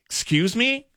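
high, thin Kermit-like squeak; shy new kid in a Kermit voice. Retold or imitated. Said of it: "I sounded like Kermit".

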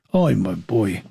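normal talking voice

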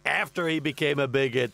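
lightly voiced blustering president; a hint of a boastful US president, rambling; boastful president riffing on beef; President impression. Same president voice.

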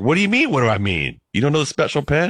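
high, disbelieving outburst; can't believe she doesn't know; incredulous. Retold or imitated. Husband baffled his wife doesn't know the pen, incredulous. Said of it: "And I was like".

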